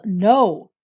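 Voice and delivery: a sudden loud, panicked No; yelling. Acted. Stormy yells at his brother, panicked shout. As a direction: shout it out in protest. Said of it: "Stormy yells".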